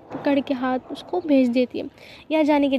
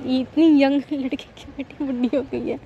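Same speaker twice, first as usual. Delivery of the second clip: laughing tease. Retold or imitated. Teasing mother, laugh heard.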